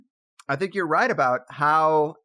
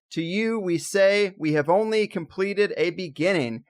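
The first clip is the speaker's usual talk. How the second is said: Neil Armstrong quote. Retold or imitated. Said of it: "where he said".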